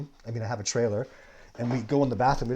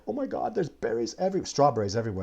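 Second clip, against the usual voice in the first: excited; 3 semitones higher, 3 dB louder than usual. Retold or imitated. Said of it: "and Scout's like".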